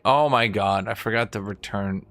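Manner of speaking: normal talking voice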